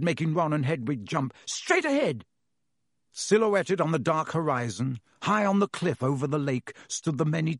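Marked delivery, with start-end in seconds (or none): 1.5-2.3 shouted. A narrator's reading. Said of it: "Harry shouted".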